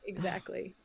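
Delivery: breathy whispered agreement; soft whispered yes. Real, not acted. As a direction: whisper it, almost to yourself. Quiet agreement after laughter.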